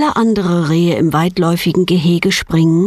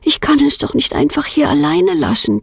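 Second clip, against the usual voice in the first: lightly voiced girl; 8 semitones higher than usual. A narrator's reading. Girl decides about fawn.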